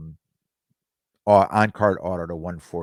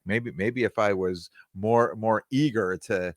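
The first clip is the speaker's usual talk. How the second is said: ordinary talk, nothing marked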